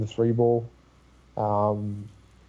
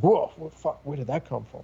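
stunned; 4 semitones higher than usual. Retold or imitated. Imitating stunned opponent.

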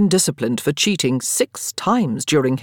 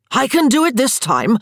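much higher, loud tipsy insisting; drunken insistence; 8 semitones higher, 5 dB louder than usual. A narrator's reading. Daniel drunkenly insisting he can win at cards. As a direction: wave off the doubters, slurring with glee.

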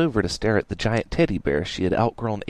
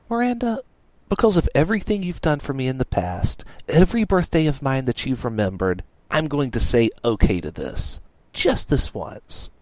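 high, grudgingly giving in; tough girl voice; 4 semitones higher than usual. Acted. Dash's voice, read aloud.

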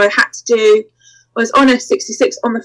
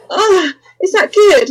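mock-seductive mistress; 7 semitones higher than usual. Acts out teasing while distracted.

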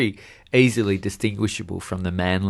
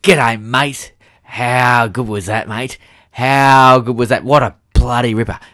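a hint of a tipsy footy fan gushing; drunk Tim Cleary. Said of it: "a highly drunk Tim Cleary turned around".

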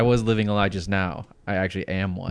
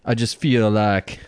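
hint of an imitated Black American accent; put-on Black American accent. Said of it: "what is this voice you're using here".

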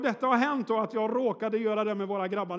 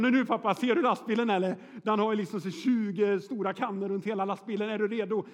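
put-on a louder, excited little boy nudging dad; eager son; 4 dB louder than usual. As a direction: sell the kid's impatience, lightly. Son urges dad to blink.

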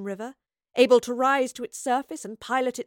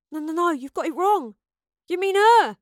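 high, loud, insistent denial; alarmed protest; 8 semitones higher, 8 dB louder than usual. Acted. Astrid correcting Yarrow and pointing at Madeline, alarmed. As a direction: protest urgently, voice climbing.

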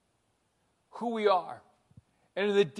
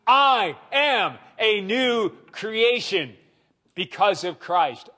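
congregation echo, slow and emphatic; slower than usual. Real, not acted. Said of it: "So say after me".

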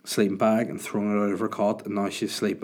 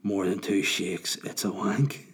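a hint of a creepy old man; slower than usual. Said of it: "said rather creepily".

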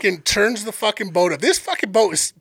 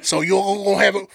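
easy Cajun safety briefing; brief the passengers in a Cajun accent; Sambo's Cajun accent. Retold or imitated. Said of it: "I'm gonna play this dude's accent".

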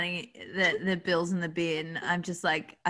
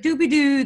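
higher, louder sing-song beeping; imitated alert noise; 7 semitones higher, 7 dB louder than usual. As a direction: mimic a machine alert going off. Imitates alert from card machine.

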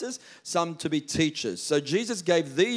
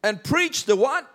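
slow, booming and higher proclamation; proclaiming Jesus's command; 8 semitones higher, 6 dB louder, much slower than usual. Acted. Preacher booming Jesus's command to his disciples, slow and loud. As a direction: ring it out like a great commission. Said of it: "He says".

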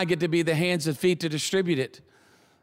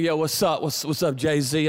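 acting cool; 3 semitones lower than usual. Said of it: "you gotta act like you cool".

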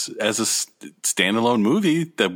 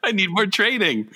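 whiny high Luke voice; 8 semitones higher than usual. Pretend. Mock Luke quote.

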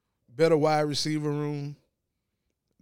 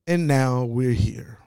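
whisper; 2 semitones lower, 4 dB louder, slower than usual. Real, not acted. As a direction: breathe it out as an aside. Whispered aside.

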